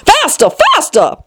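high, drawn-out urgent cry. A narrator's reading. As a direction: spur her on, high and slow. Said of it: "cried the Queen".

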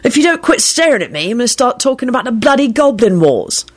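high teasing threat. Acted. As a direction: tease him with a threat.

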